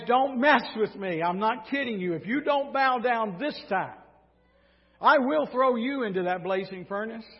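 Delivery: king laying down an ultimatum; stern warning. Acted. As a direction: warn them you mean business. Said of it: "But he adds".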